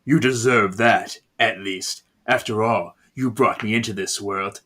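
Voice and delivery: controlled menace. Acted. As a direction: deliver a restrained threat. Possessed daughter coldly confronts victim.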